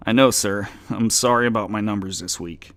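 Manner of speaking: frightened clerk swearing to his demon boss; pleading clerk. Acted. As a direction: plead fast to save your job.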